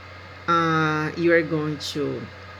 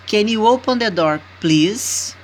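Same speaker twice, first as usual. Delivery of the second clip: "Can you open the door, please?" quicker and louder with the tune lifting on "door"; polite request intonation; 4 semitones higher, 6 dB louder than usual. Shown as a demonstration. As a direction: model the request with a rising tune, then land on "please". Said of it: "Now, improve your intonation".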